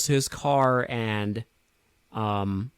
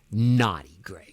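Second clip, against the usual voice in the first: put-on baby talk; 4 semitones lower, slower than usual. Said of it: "the baby talk".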